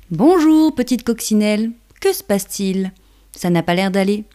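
kindly caterpillar, lifted pitch; gentle caring caterpillar. Acted. Caterpillar character greets ladybug.

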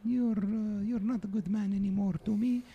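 put-on old immigrant grandmother, broken English; grandma voice. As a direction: play a doting, blunt old grandma. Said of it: "Come on in, Grandma".

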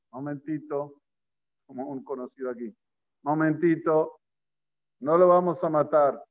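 mild, held-back protest; understated plea to wait; tentative objection. Acted. Rubén's weak objection, then corrected.

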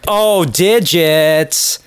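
slow, drawn-out pleased "digits"; delighted fan. Retold or imitated. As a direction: stretch the word out happily. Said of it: "she's like".

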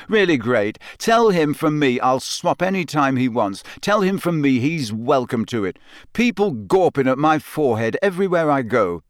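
sarcastic, resentful; bitter. Acted. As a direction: spit the resentment out. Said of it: "said Harry bitterly".

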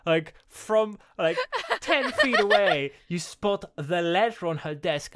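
loud, high, drawn-out exasperated rant; mock incredulous sarcasm. Podcaster mocks the villain's sharp eyesight, loud sarcastic incredulity. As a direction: pitch it up in sarcastic disbelief, stretching key words.

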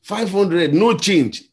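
hawking the fare to passengers; conductor shouting. Retold or imitated. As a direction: bellow it like a bus conductor. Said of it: "This guy was shouting this thing".

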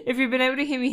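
laughing through hiccups; giggling while talking. Real, not acted. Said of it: "I have hiccups".

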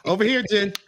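light call-a-dog voice; mock dog trainer. Mocking husband training wife like a dog, playful command. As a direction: beckon her like training a pet.

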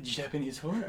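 mock sly aside, half laughing; sneaky imitation. Co-host mimics how the host slips in the phrase, sneaky. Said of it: "slipping it in like it's something, like, sneakily".

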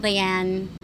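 Diane said as die-AN; "Diane" in two syllables, ending on the n; name variation. Shown as a demonstration. Host listing names she's been called, Diane as die-AN. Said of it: "a bunch of different variations".

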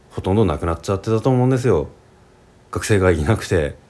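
Japanese with regional pitch accent and sounds, lightly done; relaxed chat in his own regional Japanese accent; his home dialect accent. Shown as a demonstration. Teacher shows learners his hometown dialect accent, regional Japanese pitch accent. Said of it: "こっからちょっと方言で話しますね".

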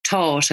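"taught" with a firm, aspirated T; hard T. Shown as a demonstration. Voice coach showing how the Republic says "taught". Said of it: "That's why they say".

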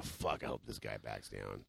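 slow fearful murmur, almost under his breath; quietly, slowly, as if praying he backs off; inner thought. Retold or imitated. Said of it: "Every time I'm thinking".

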